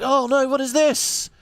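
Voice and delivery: high, slow horrified cry; hammed-up horrified whine; mock horror. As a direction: gasp it out in comic terror. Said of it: "He's like".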